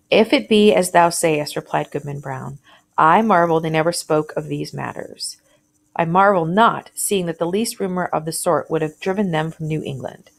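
reading a classic tale to the class, lightly voicing the speakers; story reading aloud. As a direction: read it out like a teacher sharing a story.

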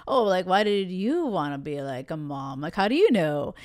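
a hint of a clueless bro; mock player voice. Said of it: "I have this voice for these players".

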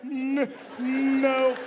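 very high angry stutter; stuttering driver. Acted. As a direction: stammer defensively. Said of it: "if you had a stutter".

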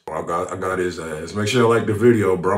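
usual speaking voice

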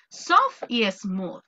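very slow, separated vocabulary words; very slow word demo. Shown as a demonstration. Teacher slowly presenting two new vocabulary words. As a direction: lay out each word slowly. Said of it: "no me voy a tardar".

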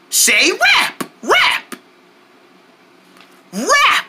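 high, bright call-and-response cheer; camp counselor cheer. Acted. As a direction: pump the kids up on every wrap. Leads kids in call-out game.

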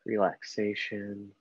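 slow, unhurried meditation guide with long pauses; guided meditation. Acted. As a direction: ease them gently through each breath, leaving space between phrases. Leads a guided breathing meditation.

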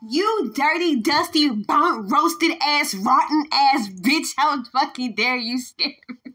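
loud indignant cussing; angry tirade. Real, not acted. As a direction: rage at whatever scared you. Cursing out the ghost.

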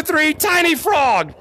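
slow, high, drawn-out shout of tiny frog; scream. Real, not acted. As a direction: scream it with the group. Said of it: "we're gonna scream tiny frog".

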